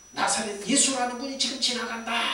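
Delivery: retold shout from the crowd. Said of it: "막 사람들이 소리치면서 그래요".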